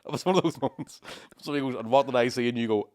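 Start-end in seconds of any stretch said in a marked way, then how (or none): 1.8-2.5 put-on wrong Irish accent. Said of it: "I know I'm doing the wrong accent".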